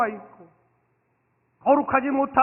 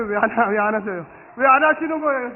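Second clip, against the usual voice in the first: usual speaking voice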